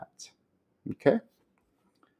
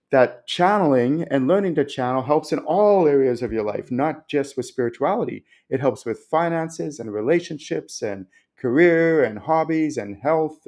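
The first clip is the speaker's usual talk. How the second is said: real passion, pitch rising higher; getting excited; 3 semitones higher than usual. Real, not acted. Teacher telling viewers how channeling helps all of life, excited. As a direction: stretch the list out with mounting enthusiasm. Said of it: "my voice is getting excited".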